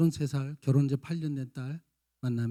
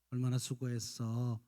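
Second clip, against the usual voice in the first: tender praise; 2 semitones lower, slower than usual. Retold or imitated. Parent hugging tired child, slow and tender. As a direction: gently soothe the child. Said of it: "안아주시고".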